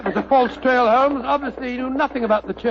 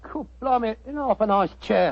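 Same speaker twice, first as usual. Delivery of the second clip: light cockney sidekick voice; a hint of cockney workman; cockney disguise. Sidekick answers his mate in a light cockney. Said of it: "What barbaric jargon do you speak?".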